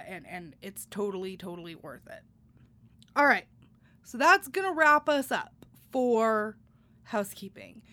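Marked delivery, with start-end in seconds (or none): 4.0-7.8 breathless after a long read; winded, catching your breath. Real, not acted. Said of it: "I'm a little out of breath".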